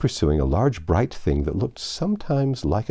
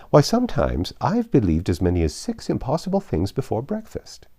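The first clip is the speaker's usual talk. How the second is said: a dithering queen chattering on; fussy White Queen; 2 semitones higher than usual. Acted. Flustered Queen talking to Alice.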